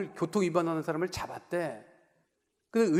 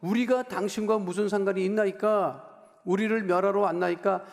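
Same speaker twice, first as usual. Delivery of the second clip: mock demon cry; 3 dB louder than usual. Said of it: "소리 질러서".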